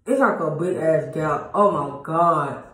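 slow speech round a missing tooth; talking oddly after extraction. Real, not acted. Vlogger showing viewers her new tooth gap, talking oddly. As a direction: drag the words out, mouth awkward from dental work. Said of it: "I don't know why I'm talking like this either".

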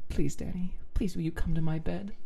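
high, earnest request; pleading. Acted. Asking Danny to come to bed, high pleading.

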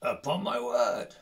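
a hint of a grave dwarf lord; dwarf king Thorin. A narrator's reading. Thorin voiced in story.

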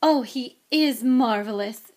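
slow, loud, gushing praise; beaming admiration. Acted. Mother admiring the wizard's photograph, gushing. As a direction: gush adoringly, stretching the praise. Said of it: "Missus Weasley beamed down at him".

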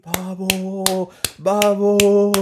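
hammed-up 'vamos' like clapping at the landing; mock cheering. Drunk guy cheers on landing.

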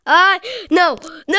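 high, loud wail of defeat; despairing scream. Real, not acted. Gamer losing the final round, long despairing scream. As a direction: cry out, holding the last no very long.

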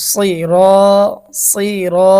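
সিরা with a thick emphatic s and long রা; heavy Sad. Shown as a demonstration. Teacher showing the thick pronunciation of sad, heavy recited সিরা. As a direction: make the s of সিরা heavy, then hold রা. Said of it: "মোটা হবে".

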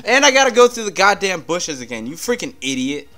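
high, loud angry rant at the game; furious yelling. Real, not acted. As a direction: scream your frustration at the screen. Raging at game battle.

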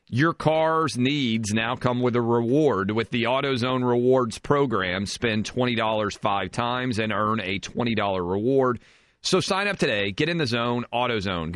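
measured, slightly slow sponsor read; radio ad read. Real, not acted. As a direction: read the sponsor copy to listeners. Reads a sponsor ad.

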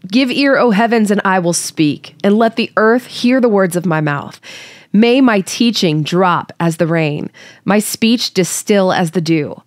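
unhurried scripture reading voice. Acted.

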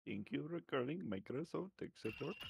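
put-on Indian accent. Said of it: "Prod comes in talking about them".

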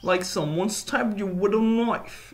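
a shaky attempt at a British accent, repeating the narrator; bad British accent. Gamer mimicking the game narrator in a bad British accent. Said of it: "that's my shitty British accent".

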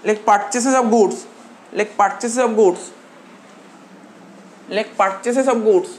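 each word drawn out slowly for notes; slow dictation. Shown as a demonstration. Teacher to class taking notes, slow dictation. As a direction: dictate slowly so students can write. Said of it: "এরপরে তোরা লেখ".

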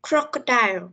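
teacher's model "crocodile", weight on the first syllable; stress on first syllable. Shown as a demonstration. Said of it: "mình sẽ đọc lớn ở cái phần âm đầu tiên".

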